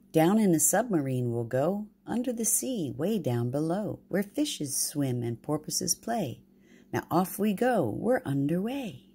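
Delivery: sing-song rhyming read; poem read aloud. A narrator's reading. Grandma reading a rhyme to her grandbabies, sing-song. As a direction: lilt the little poem to the babies.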